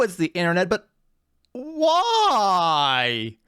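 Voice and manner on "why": long wailed why that falls away; exasperated disbelief. Real, not acted. Man reacting to game video, baffled wail. Baffled by what he found online.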